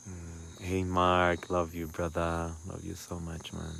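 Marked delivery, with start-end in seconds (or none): 0.6-2.5 louder, delighted hello; loud joyful shout-out to Mark; happy greeting. Real, not acted. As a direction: greet him like a brother. Greeting a friend in chat.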